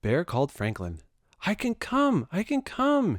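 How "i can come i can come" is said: high, bright shouting; excited shout. A narrator's reading. Bear calling Franklin with his news, shouting happily. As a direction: shout it out in glee. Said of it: "he shouted".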